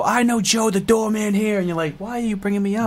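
a hint of a drunk bar patron; mock drunk bragging. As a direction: play a drunk name-dropper, a bit high. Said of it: "I got drunk at a bar and I go".

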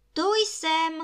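very high, loud repeated call. A narrator's reading. Ring calls from the cut-off finger, high-pitched cry. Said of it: "volal prsten".

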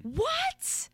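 high incredulous what; shocked disbelief. Real, not acted. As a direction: gasp it out in disbelief. Shocked a song is not top ten.

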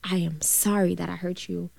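soft, hushed, tender sorry; whispered apology. Retold or imitated. Mother finally apologizing to her daughter, whispered. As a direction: breathe the apology out softly. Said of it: "She said".

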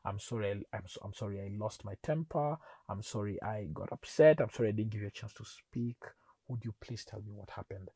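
humble apology. Retold or imitated. Husband saying sorry to wife after losing temper, humble. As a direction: apologise contritely, voice dropped. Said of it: "ate humble pie and said".

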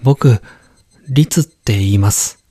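put-on young boy voice. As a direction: introduce yourself like a boy.

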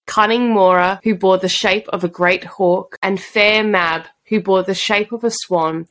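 measured storybook reading; steady, even read-aloud voice; story narration. Acted. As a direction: read it like an old fairy legend. Reads book passage aloud.

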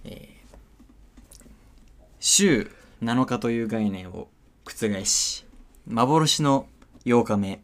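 落ち着いた、かしこまったアナウンサー口調; 夜のニュース番組を仕切るように読む; ニュースキャスター. Acted. ニュース番組の司会をする. (ニュース番組の司会として、キャスター口調で)

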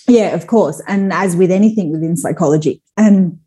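choking on tea while talking; choking on a drink. Real, not acted. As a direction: talk through a sip gone down wrong. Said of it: "sorry, I'm choking on my tea".

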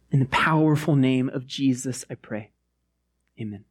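hushed, earnest prayer. Acted. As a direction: pray gently over the room. Leads the congregation in prayer.

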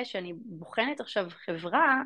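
ordinary delivery

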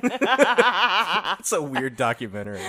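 mock nature documentary voice; slow, hammed-up narrator.

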